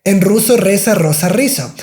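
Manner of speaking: Rosa Rizzo rattled off quickly; fast tongue twister. Shown as a demonstration. Teacher showing the twister at speed. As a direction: race through the twister. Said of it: "I'm saying a little bit fast".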